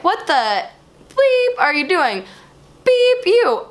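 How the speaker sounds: mock yell, jumping high on the bleeps; imitated angry yelling. Angry driver mouthing swear words at her, imitated yelling. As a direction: play an irate driver, censoring the swearing. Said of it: "interpreted his, you know, yelling".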